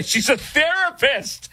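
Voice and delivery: laughing disbelief on a therapist. Acted. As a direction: say it through a laugh. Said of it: "repeats it in a high mock voice".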